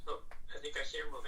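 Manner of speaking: fast hushed whisper. Real, not acted. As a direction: whisper it quickly. Watching the screen quietly.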